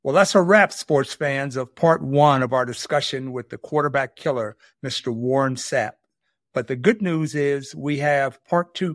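upbeat host wrapping up the episode for sports fans; show sign-off. Acted. Host signing off to sports fans, announcer read.

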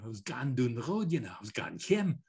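broad Geordie voice; light Geordie accent. Retold or imitated. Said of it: "when you hear the right broad Geordie".

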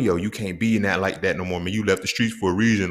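low-pitched retold admonishment; admonishing peers. College peers telling him to leave street life behind, admonishing.

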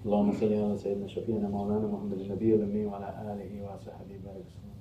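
rapid, even khutbah recitation; formal Arabic prayer recital. Real, not acted. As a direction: recite the verse and blessing fluently. Recites Arabic verse and blessing.

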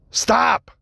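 stifling a sneeze; fighting off a sneeze; holding back a sneeze. Real, not acted. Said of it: "I'm trying to not to sneeze".

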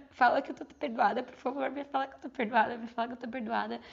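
pleading. Acted. Inner voice begging forgiveness.

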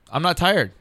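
high, loud protest of being wide awake; retold wired insistence. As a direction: insist on it, voice jumping up. Retells defiant wakefulness against pill.

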